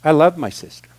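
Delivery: mean it this time, gently; a plain, sincere admission of love. Real, not acted. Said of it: "Seriously, I still do".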